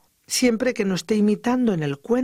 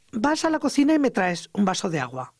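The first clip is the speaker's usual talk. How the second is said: "vas a la cocina" as a mild command, falling at the end; order intonation. Shown as a demonstration. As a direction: give "me traes un vaso de agua" as an instruction, not a question. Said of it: "Estoy dando una orden". ("vas a la cocina y me traes" con entonación de orden)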